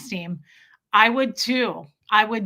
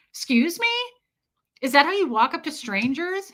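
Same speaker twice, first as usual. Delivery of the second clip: higher, affronted question; mock taken aback; 5 semitones higher than usual. Replying to a stranger's rude question, mock taken aback. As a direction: act mildly affronted by a stranger.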